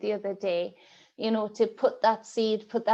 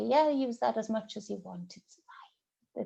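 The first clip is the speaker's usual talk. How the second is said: mock dismissive; 4 dB quieter than usual. Mocking UK government sign-off.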